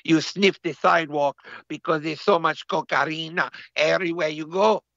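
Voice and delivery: mock Latino accent; put-on Colombian accent. Co-host describing cocaine-paved America, in a mock Colombian accent. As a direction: spin a tale in a Colombian accent. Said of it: "We sound extra Colombian now".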